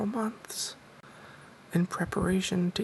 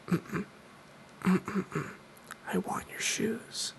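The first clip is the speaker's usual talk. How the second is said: mugger's refusal; 3 dB quieter, much slower than usual. Retold or imitated. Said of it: "And she goes".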